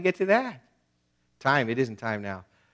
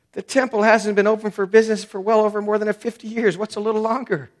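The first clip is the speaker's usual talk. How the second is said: lightly voiced excuse-maker, a touch higher; mock excuses; 4 semitones higher than usual. Preacher voicing people's excuses for neglecting the temple, lightly mocking. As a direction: rattle off lame excuses with mild mock innocence. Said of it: "I'll just quote to you what he says here".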